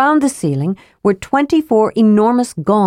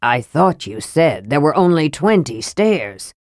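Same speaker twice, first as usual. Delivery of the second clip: growled; 3 semitones lower than usual. Acted. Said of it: "Flint growled".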